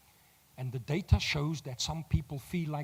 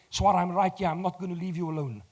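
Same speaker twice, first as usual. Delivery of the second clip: reassuring; 2 semitones higher, 4 dB louder than usual. Retold or imitated. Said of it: "look at you in the eye and say".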